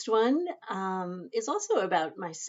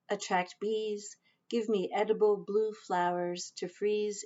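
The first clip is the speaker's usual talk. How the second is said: measured poetry recital with pauses between phrases; poem reading. Acted. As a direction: read your poem aloud, line by line. Reads own poem aloud.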